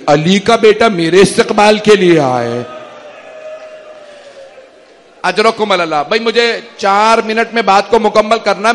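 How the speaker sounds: measured, mournful majlis narration; masaib recitation. Acted. Majlis masaib recitation, Karbala story. (مجلس میں غمگین مصائب کا بیان)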